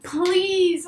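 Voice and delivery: unvoiced begging whisper; whispered pleading please. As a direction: beg under your breath. He pleads again.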